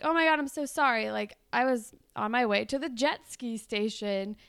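a hint of a sorry beach boy; cute boy. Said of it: "And he's like".

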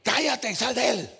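regaño fuerte y más agudo; ordénalo con autoridad; stern rebuke. Acted. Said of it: "lo reprendió es que lo regañó". (Jesús regaña al demonio con autoridad)

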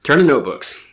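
over-the-top advice column read; mock magazine advice read. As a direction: read it like a teen magazine tip.

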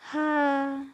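audible sad breathy sigh out; heavy sigh. Acted. Geronimo alone on empty streets, a heavy sigh. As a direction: let out a weary sigh. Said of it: "he sighs, feeling down".

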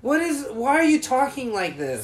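high, loud incredulous mock; exaggerated cartoon intonation. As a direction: squeal it in disbelief, laughing. Retelling mocking the boss.

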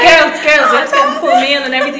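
hammed-up promoter coaxing the girls; mock promoter. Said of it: "He's like".

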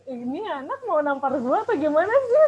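high, loud, swooping mock outrage; acted stunned disbelief. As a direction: blurt it as an incredulous inner reaction. Acted stunned reaction to the gift.

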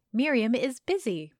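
vitriolic. A narrator's reading. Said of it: "her voice soaked in vitriol".

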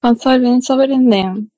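practised Kansai intonation; learner's Kansai accent, evenly delivered; Kansai dialect. Shown as a demonstration. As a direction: repeat the Kansai line carefully. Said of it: "グッド".

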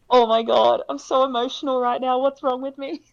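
high, loud mock distress; mock panic. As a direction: play up the overwhelm. Retold emotional outburst.

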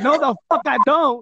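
retold protest. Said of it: "I was like".

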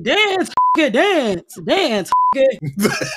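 repeated taunting command; imitated movie command. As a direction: bark it like a film tough guy ordering someone to dance. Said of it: "He said".

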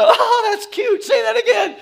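amused northerner asks the Louisiana man to repeat it; teasing city folk. Retold or imitated. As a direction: coo at the funny accent like it's adorable. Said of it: "And they're like".

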